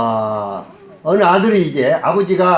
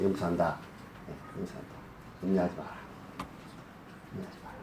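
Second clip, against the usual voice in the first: very soft, low fatherly reassurance; gentle forgiveness; 8 semitones lower, 17 dB quieter, faster than usual. Acted. Father forgiving his son after the confession, gently reassuring. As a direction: forgive him quietly, almost under the breath.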